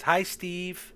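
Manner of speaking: put-on high-pitched little boy voice. Little boy greeting a stranger, high childlike voice. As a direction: greet like a dazed, simple child. GM voices eight-year-old Patrick.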